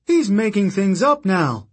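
high, loud scornful jab; sneering accusation. Acted. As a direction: spit it out as an accusation. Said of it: "Octavian shouted".

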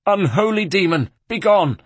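high, loud exorcising cry; horrified banishing. A narrator's reading. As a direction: drive the demon away at high pitch. Terrified abbot banishing a demon.

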